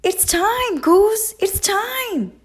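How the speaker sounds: high, loud squawk of alarm; squawking duck. A narrator's reading. Duck squawks to Goose as the egg moves, high and frantic. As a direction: flap about in a panic. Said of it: "Duck squawked".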